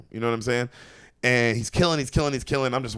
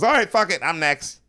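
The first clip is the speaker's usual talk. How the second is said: excited mock Chappelle voice; high-pitched hyped quote; Dave Chappelle; 6 semitones higher than usual. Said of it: "Dave Chappelle goes".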